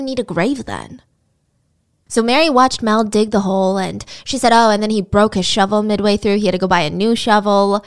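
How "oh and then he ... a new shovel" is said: imitating a bored, even-toned testimony; recounting it like routine errands; bored witness. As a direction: recite it with no interest, as a bored witness. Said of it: "I know I sound bored".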